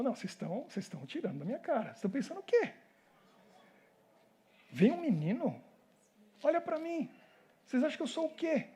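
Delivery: offended giant, rising into incredulous questions; mildly acted indignation. Goliath insulted by an unarmed boy challenger, mildly indignant. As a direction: scoff lightly at an unworthy opponent. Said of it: "Aí o Golias ficou indignado".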